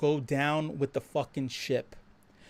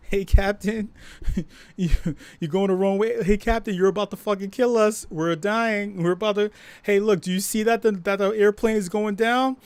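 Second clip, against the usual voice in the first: mock-panicked shouting, louder and higher; panicked yell at captain; 5 semitones higher, 4 dB louder than usual. Co-pilot warning the drunk captain, panicked shout. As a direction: yell up at the captain as the plane goes down.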